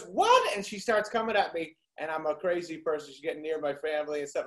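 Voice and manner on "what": lady's what pitched way up; mock woman's sharp high what. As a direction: squeak it like the confused lady. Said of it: "She goes".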